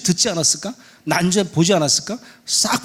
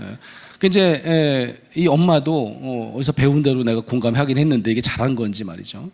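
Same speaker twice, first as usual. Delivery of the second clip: ordinary talk, nothing marked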